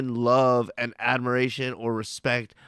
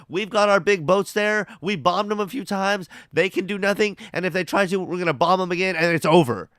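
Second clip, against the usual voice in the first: higher, boastful mock of a swaggering president; mocking Trump voice; 5 semitones higher than usual. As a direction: puff it up like a bragging bully, pitched up. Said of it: "That's how he talks".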